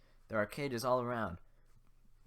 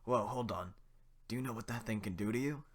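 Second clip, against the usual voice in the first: louder, alarmed villager warning his friend; worried villager; 3 dB louder than usual. Acted. Villager warns his friend about the ogre, alarmed. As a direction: hold him back, you're scared of the thing. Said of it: "I'll just do the voices".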